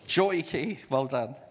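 group echo. Shown as a demonstration. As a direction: say it back brightly. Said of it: "Can you say joy key?".

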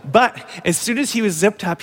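ordinary talk, nothing marked

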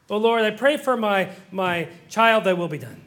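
formulaic mock prayer, falling away at the end; rote prayer. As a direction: recite a stock prayer. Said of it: "you don't talk that way".

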